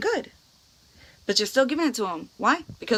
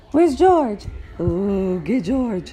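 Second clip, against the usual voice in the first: urging the dog. Real, not acted. Mother urging the dog to play.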